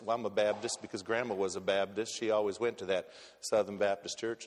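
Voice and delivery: a preacher's hammed-up Southern churchgoer accent; bad Southern accent. Pastor mimicking a Southern churchgoer, in a bad Southern accent. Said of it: "my bad Southern accent".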